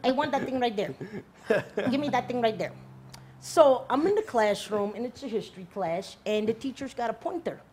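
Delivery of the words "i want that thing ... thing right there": put-on light Filipino accent, pointing with the lips; mock Filipino substitute teacher; a hint of a Filipino accent; imitating Filipino accent. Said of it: "the Filipino people talk like that".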